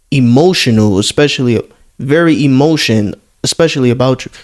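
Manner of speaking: mocking the desperate fan. Keeps reading the fan's messages.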